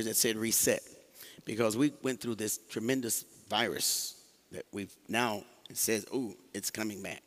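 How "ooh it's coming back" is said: spooky warning. Shown as a demonstration. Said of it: "like that".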